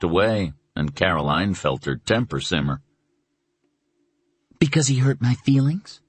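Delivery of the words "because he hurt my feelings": demanding. Acted. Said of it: "she demanded".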